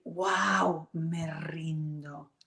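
slow breathless whisper on me rindo; whispered surrender. Retold or imitated. Meditating mother giving up the struggle, in a slow whisper. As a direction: let go, barely voiced. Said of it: "ya está lista para decir".

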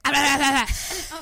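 loud babble cutting in; mock talking over. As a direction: drown them out with rapid nonsense. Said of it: "constantly talking over the top of her".

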